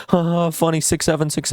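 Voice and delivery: high-pitched silly teasing voice; mock goofy banter. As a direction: sneer it like dumb friends joking. Mocking friends' silly banter.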